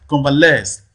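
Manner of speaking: Convalesce with LESCE loud and falling; stress on last syllable. Shown as a demonstration. Teacher recaps the rule, Convalesce stressed on LESCE. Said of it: "last syllable there receives the primary stress".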